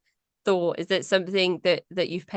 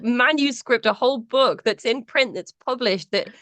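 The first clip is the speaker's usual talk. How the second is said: delighted praise of a real book; gushing; 5 semitones higher than usual. Real, not acted. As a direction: rave about the book.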